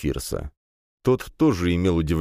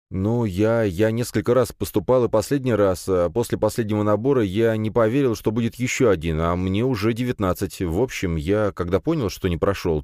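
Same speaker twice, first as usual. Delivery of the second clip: lightly voiced youth explaining himself, a little higher; slightly higher, halting self-justification; nervous young man; 4 semitones higher than usual. (слегка взволнованный парень оправдывается)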